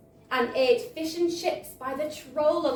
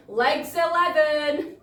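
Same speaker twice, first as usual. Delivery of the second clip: bingo caller; 2 semitones higher, 4 dB louder, slower than usual. Acted. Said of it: "when the caller called out".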